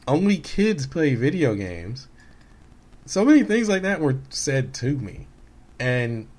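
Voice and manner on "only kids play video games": mocking critics. Retold critics telling him to quit.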